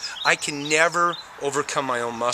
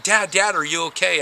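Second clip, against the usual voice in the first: worried son; 4 semitones higher than usual. Retold or imitated. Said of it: "he's like".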